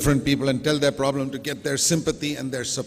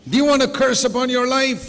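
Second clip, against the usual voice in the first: raised, high rhetorical challenge to the church; loud challenge; 9 semitones higher, 6 dB louder than usual. Acted. Preacher challenging his congregation, loud and high. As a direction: push the question out loud and high.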